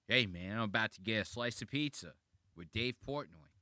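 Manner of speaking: lightly imitated Brooklyn accent. Reactor imitating comedian's normal voice, light Brooklyn accent. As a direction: mimic an ordinary Brooklyn guy's accent. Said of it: "a normal ass Brooklyn accent".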